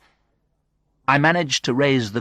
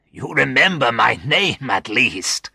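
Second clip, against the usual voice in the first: higher, amused voice; laughing; 4 semitones higher than usual. A narrator's reading. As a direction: say it with a touch of laughter. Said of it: "he laughed".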